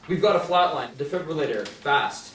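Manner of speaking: a doctor yelling over a dying patient; urgent shout. Acted. Emergency doctor facing a flatline.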